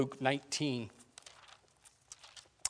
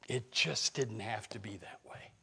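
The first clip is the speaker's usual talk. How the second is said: whisper; 4 semitones lower, 8 dB quieter than usual. Real, not acted. Pastor grieving lost lives.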